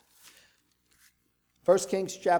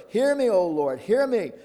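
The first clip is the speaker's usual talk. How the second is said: fervent plea; 4 semitones higher, 6 dB louder than usual. A narrator's reading. Elijah's prayer crying out.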